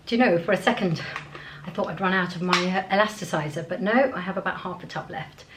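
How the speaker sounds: breathless, puffing between words; out of breath in humid air. Real, not acted. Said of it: "I'm sounding so out of breath".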